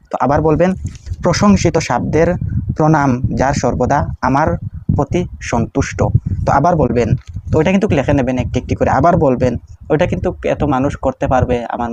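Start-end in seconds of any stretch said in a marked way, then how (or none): 1.2-6.0 prayer recitation. Shown as a demonstration.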